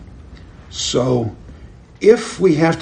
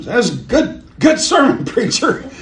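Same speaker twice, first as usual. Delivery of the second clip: little street urchin; 12 semitones higher than usual. Retold or imitated. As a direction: play a small street boy gushing at the preacher. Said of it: "And here's this little street urchin".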